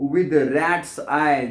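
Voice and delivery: each word read out slowly and clearly; slow poem reading. Shown as a demonstration. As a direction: read the line slowly, as for a class. Teacher reads poem line aloud. (धीमे-धीमे कविता पढ़ना)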